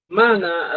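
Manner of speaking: "Mana" said slowly and clearly, pitch falling; Quechua word demo. Shown as a demonstration. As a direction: model "Mana" with a falling tune. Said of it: "Son sí es negativo".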